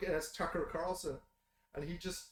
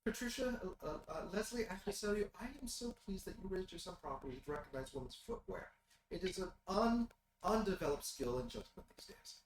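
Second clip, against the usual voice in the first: softer, genteel, cooing praise; doting old lady; 6 dB quieter, faster than usual. Acted. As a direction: purr it like a proud grandmother. GM voices Agnes, held.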